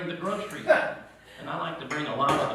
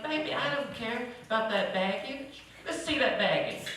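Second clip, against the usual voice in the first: eager fiancé; 9 semitones higher, 6 dB quieter than usual. Retold or imitated. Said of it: "And he's like".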